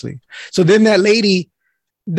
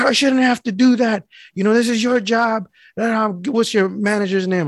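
higher-pitched imitation of a complaining customer; mock indignant complaint; 4 semitones higher than usual. Old lady telling mailman it's his job, mock indignation.

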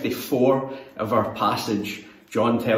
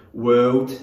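"world" slowed in a Geordie accent; Newcastle accent; 4 dB louder than usual. Shown as a demonstration. Youth leader shows teens how Newcastle says it, Geordie accent. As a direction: drawl out "world" the way Newcastle folk say it. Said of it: "the way that a lot of people would say it in Newcastle".

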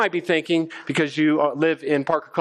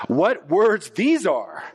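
amazed crowd; 3 semitones higher than usual. Retold or imitated. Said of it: "were amazed and said".

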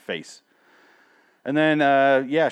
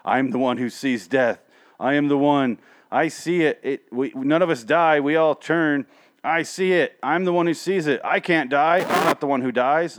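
mocking Morgan; 4 semitones higher, 6 dB louder than usual. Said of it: "the rest of the episode is Morgan going".

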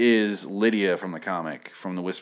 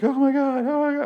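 shrill-high, louder mock panic; mock freaking out; 6 dB louder than usual. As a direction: squeal it like a hammed-up panicked crowd. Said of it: "everyone freaks out".

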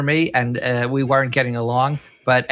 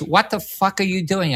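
higher, mock-outraged editor yelling down the phone; mock angry editor; 6 semitones higher than usual. Editor phoning the sleeping cameraman, mock outraged and higher. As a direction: imitate a furious editor, pitched up.

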